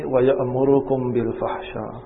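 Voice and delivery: rapid recited Arabic phrase; Quran recitation. Acted. Preacher quoting Quran to listeners, fast recitation. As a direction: rattle off the verse fast.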